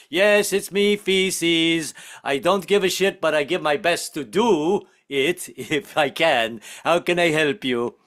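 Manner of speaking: lightly voiced, drawn-out obliging character; hapless plumber character. Plumber named Feces answering a caller, mock obliging voice. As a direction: answer in a mild put-on voice, slowing down. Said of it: "some stupid parent that named their kid Feces".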